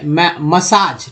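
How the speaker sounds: मसाज said slowly, short a then long aa; slow correct pronunciation. Shown as a demonstration. Teacher to students, slowly modelling मसाज. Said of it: "मैसेज नहीं".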